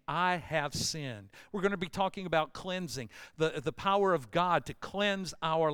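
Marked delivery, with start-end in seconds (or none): 0.1-1.3 slow confession. Shown as a demonstration.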